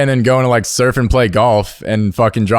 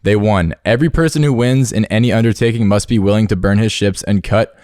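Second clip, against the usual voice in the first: storytelling voice. Shown as a demonstration. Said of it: "let me get my storytelling voice on".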